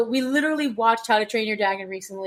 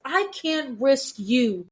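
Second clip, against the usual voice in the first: very slow, each word set down firmly; firm protective quote; 2 semitones higher, much slower than usual. Retold or imitated. Podcaster quoting Cassian refusing to risk her, slow and firm. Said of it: "but he was also like".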